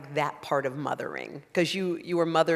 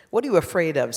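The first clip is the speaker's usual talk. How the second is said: louder, a judging scornful jab; scornful judgment; 3 semitones higher, 6 dB louder, faster than usual. Acted. Adult voice mocking the frightened inner child with scorn. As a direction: sneer it down at the scared child. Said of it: "full of judgment and scorn".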